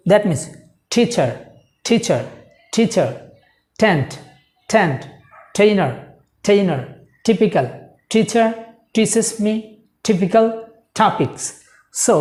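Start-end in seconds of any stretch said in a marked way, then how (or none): 0.9-11.4 teacher, tent, typical opening with a puffed t; aspirated t. Shown as a demonstration. Teacher drilling example words for learners, aspirated t. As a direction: push air out on every t in teacher, tent, topics. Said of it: "একটা ধাক্কা দিবেন".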